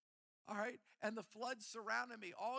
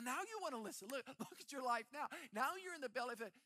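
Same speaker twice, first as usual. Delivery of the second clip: a touch of God's teasing rebuke, pitched up; lightly voiced God; 4 semitones higher, faster than usual. God to the runner in the fish, mild mock rebuke. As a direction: let God needle the runner a bit.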